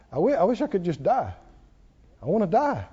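understated, retold despair; hurting. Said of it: "He's hurting".

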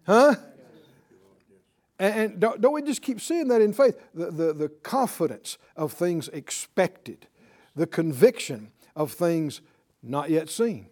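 ordinary talk

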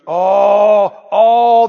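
mock-crying Judas protest; mock wail. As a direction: wail like a pious complainer. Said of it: "Who said that?".

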